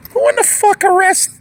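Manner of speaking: high, indignant burst; outraged disbelief. Retold or imitated. Angry at hearing that babies get arrested, outraged. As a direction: demand an answer in outrage. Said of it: "And I'm like".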